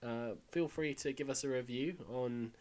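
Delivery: hoarse from being ill; croaky voice. Real, not acted. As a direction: croak through the sign-off. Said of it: "put up with my croaky voice".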